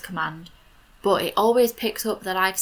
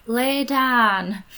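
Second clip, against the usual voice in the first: "Lay down" with a Yorkshire flat "dan", a bit higher; Yorkshire accent; 5 semitones higher, 4 dB louder than usual. Retold or imitated. Telling her game dog to lie down in a Yorkshire accent. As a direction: say "Lay down" the Yorkshire way, short open vowel. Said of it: "in my accent".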